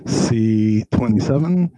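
slow, drawn-out number call; bingo caller. Pretend. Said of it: "Magic Mike looks like a bingo caller".

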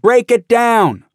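high, loud, slow shout; retold shout. Rioters outside the Speaker's lobby shouting high, loud and slow. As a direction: bellow it through the door. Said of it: "people shout".

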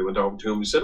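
normal talking voice

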